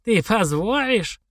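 slow, high, trembling hope; hopeful old woman. A narrator's reading. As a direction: ask it almost in tears.

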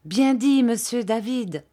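high, loud burst of approval; enthusiastic cry. A narrator's reading. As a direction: cheer him on eagerly, voice leaping up. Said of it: "s'écria Ham avec enthousiasme". (exclamation enthousiaste)

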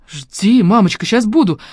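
high and loud, bursting with joy; joyful exclaim. A narrator's reading. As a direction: shout it out, can't wait to go. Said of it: "воскликнула я".

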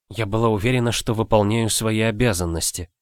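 usual speaking voice

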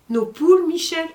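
high, loud astonished question; shocked. Acted. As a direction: gasp it out in disbelief. Master shocked about his hens. (maître stupéfait, question aiguë et forte)

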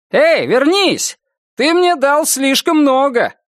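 calling out. Acted. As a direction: shout after someone leaving. Cashier calls after him.

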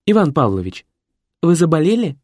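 the assistant checks anxiously on his master; worried secretary. A narrator's reading. Secretary wakes his master, worried and concerned. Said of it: "Озабоченно поинтересовался помощник".

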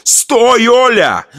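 high, desperate plea; pleading cry. A narrator's reading. Husband pulling wife off daughter, desperate plea. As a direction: beg her to stop. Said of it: "умолял я".

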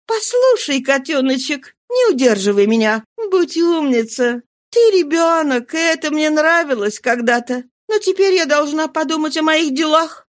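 put-on high-pitched woman gently soothing a boy; indulgent, affectionate brush-off; tender coaxing. A narrator's reading. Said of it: "Нежно отстраняя его".

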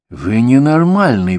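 almost shouting. A narrator's reading. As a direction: nearly yell it at him. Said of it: "почти закричал молодой". (почти кричит)

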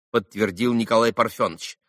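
plain reading voice

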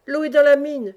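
shouted warning. A narrator's reading. Uncle warning of the flood in the mine, shouting. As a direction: raise the alarm in a narrated shout. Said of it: "cria l'oncle Gaspard".

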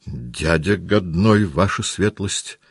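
slow answer with a guttural R; Denisov's burr. A narrator's reading. Officer answers commander about his uncle, burred R. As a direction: soften the R in "годной" to a throaty G.

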